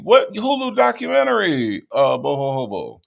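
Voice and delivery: incredulous question. Real, not acted. Baffled by a viewer comment.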